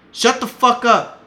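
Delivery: very high, loud, slowed furious shout; retold scream. Son yelling at his dad against the wall, enraged scream. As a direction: shout each word hard at him. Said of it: "I told him like that".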